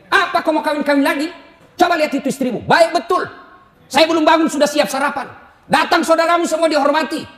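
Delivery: a hint of a scolding mother; mock-stern mum threatening her son. Mother scolds son not to remarry, mildly stern. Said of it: "Gitu mama saya kalau marah".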